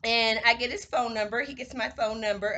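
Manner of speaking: put-on light, breezy white girl voice; a hint of valley girl in Romeo. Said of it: "I'm talking in a white girl voice".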